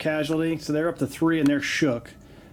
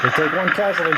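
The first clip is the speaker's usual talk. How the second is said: excited; 2 semitones higher, 6 dB louder than usual. Real, not acted. Excited call of a dice result.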